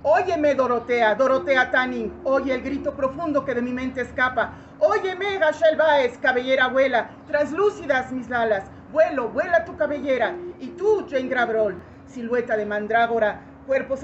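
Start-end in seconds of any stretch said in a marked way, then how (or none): 0.1-11.8 loud poetic invocation; declaimed cry to be heard; calling out. Acted. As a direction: summon them by name at full voice. Calls on artists to hear her.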